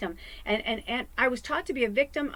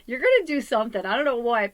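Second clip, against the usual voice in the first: emphatic reader; 3 semitones higher, 8 dB louder than usual. Retold or imitated. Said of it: "She's like".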